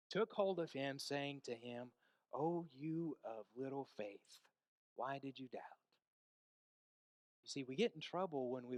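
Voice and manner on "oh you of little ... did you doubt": gentle rebuke. Retold or imitated. Jesus to Peter, taking hold of him, gently reproving. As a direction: chide him tenderly.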